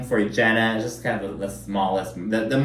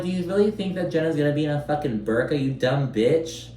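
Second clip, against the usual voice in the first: mock retort; 3 semitones higher than usual. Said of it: "And I'm like".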